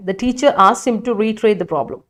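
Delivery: reads the sentence out very slowly; slowly reading a student's sentence aloud. Shown as a demonstration. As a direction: dictate each word to the class. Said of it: "reading student sentence slowly".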